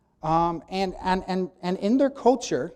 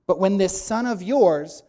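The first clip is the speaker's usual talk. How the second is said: slow, louder stress on yours; older son disowning his brother before the father; cold this son of yours; 2 semitones higher, 7 dB louder than usual. Acted. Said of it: "not when my brother".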